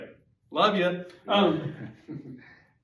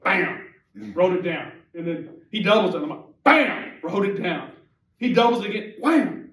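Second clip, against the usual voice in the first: excited; 5 dB louder than usual. Retold or imitated.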